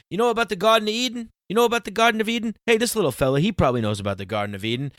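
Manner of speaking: high, fast, hammed-up Jewish accent as the preaching priest; mock Jewish priest. Priest quizzing churchgoers at a baptism, in a high, fast mock Jewish accent. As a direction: rattle it off high and quick in a put-on Jewish accent. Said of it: "kind of like a Jewish kind of thing".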